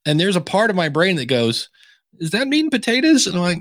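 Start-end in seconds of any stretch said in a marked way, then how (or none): 2.2-3.3 inner voice. Retold or imitated. Inner voice questioning.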